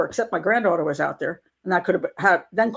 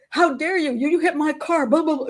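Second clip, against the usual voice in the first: higher mock outraged shriek; imitating shrieking woman; 7 semitones higher than usual. Grandmother mimics the woman shrieking with phone out. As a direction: parody her shrieking, a bit dismissive. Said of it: "She starts shrieking at me".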